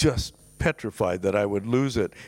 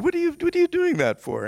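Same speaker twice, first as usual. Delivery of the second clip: retold yell; 3 dB louder than usual. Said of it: "we got into this screaming argument".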